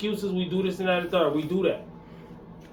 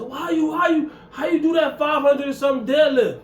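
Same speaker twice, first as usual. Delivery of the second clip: higher, incredulous asking voice, imitating doubters; playing the skeptics who ask about his lift; mock questioning people; 9 semitones higher, 3 dB louder than usual. To his viewers, mimicking people doubting his deadlift, incredulous. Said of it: "People always say".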